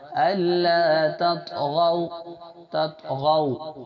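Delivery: تطغوا ending in a soft, quick واو; soft quick waw. Shown as a demonstration. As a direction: recite تطغوا with a light waw glide. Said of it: "ان کو نرم آواز سے جلدی پڑھیں گے".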